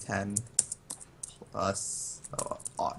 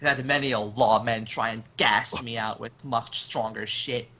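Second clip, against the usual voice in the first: mildly raised, defiant call; half-hearted acted yell; 2 semitones higher than usual. Gunman taunting whoever sent the smoke, half-yelled. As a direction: yell into the distance without full force. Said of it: "I'm just sort of yelling".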